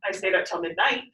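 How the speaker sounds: midNIGHT with a rise on the second syllable; odd stress on NIGHT. Shown as a demonstration. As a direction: say midnight with the weight on its end. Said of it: "Sounds weird".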